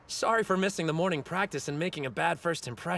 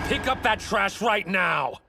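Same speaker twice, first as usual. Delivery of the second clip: stern; 6 dB louder, slower than usual. Acted. Stern order to delinquents.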